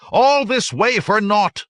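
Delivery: high, loud, drawn-out shout; outraged cry. A narrator's reading. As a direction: cry out at the wasted journey. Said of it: "another cried".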